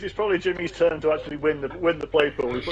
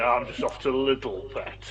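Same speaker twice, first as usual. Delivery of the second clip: sleazy mumble; 4 dB quieter, slower than usual. Pretend. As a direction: say it like a seedy secret. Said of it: "Well, Bernie, where are you going?".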